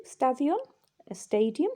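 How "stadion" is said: stadion pronounced as Greek; Greek word. Shown as a demonstration. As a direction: give stadion its Greek sounds.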